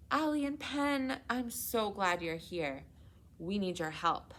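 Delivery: a frantic call for help; urgent relief calling to friends; cried frantically. Acted. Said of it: "I cried frantically".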